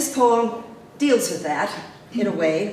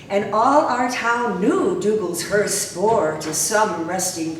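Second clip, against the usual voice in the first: poem recitation. Acted. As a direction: recite it at a funeral procession's pace.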